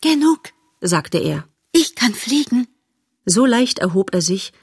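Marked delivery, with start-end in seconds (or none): 0.0-0.5 haughty butterfly. Acted. 1.7-2.7 haughty butterfly. Acted.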